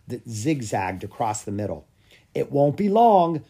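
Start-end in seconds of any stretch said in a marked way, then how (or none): 2.3-3.4 eager anticipation. A narrator's reading. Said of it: "Grom said".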